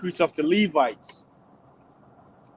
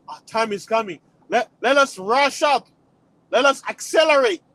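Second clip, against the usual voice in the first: mild panicked hurry; 4 semitones higher than usual. Retold or imitated. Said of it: "they're like".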